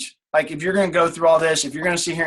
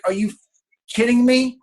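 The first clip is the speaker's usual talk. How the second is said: incredulous; 7 semitones higher than usual. Retold or imitated. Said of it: "I'm like".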